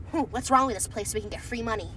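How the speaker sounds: low, fast whiny guest; mock guest voice. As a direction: sneer it as a picky guest. Imitating a guest.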